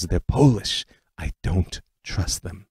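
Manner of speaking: slow, thick Eastern European accent, lightly imitated; a hint of an old aunt's Eastern European accent. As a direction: quote the aunt slowly in a mild Eastern European accent. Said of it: "in her thick Eastern European accent".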